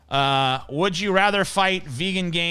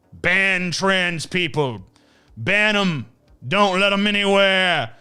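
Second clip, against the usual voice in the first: sarcastic mock demand; 4 semitones higher, 4 dB louder than usual. Sarcastic voicing of bigots' demands.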